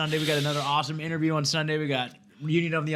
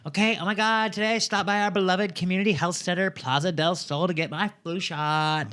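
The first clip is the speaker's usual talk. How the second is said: mock valley girl reading the tweet; 3 semitones higher than usual. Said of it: "I'll do it more Valley Girl".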